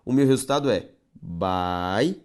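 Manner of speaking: baiuca dividido em sílabas no fim; syllabified word. Shown as a demonstration. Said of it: "separação silábica de baiuca". (baiuca silabado)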